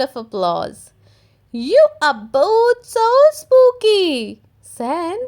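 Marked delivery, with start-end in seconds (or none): 1.5-4.4 admiring praise. A narrator's reading. Granny praising costumes.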